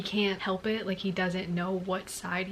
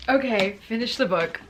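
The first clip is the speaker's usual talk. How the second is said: stunned loud exclamation; 6 dB louder than usual. Real, not acted. Reacting to book ending.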